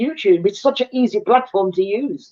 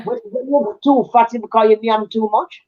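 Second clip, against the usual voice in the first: broad Jamaican patois, like Miss Lou. Real, not acted. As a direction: lean into the Jamaican folk voice. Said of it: "You sound like Miss Louie".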